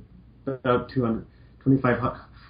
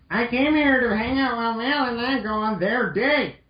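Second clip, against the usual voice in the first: surfer dude voice; 12 semitones higher than usual. Acted. Mega Man greeting Roll as a laid-back surfer dude. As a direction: play a chill surfer dude.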